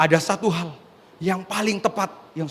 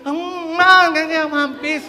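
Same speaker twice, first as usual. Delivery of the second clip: higher, louder war cry; retold battle shout; 10 semitones higher, 5 dB louder, much slower than usual. Preacher voicing the Israelites' shout on the seventh day, loud battle cry. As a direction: shout it out like an army. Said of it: "hari ketujuh mereka teriak".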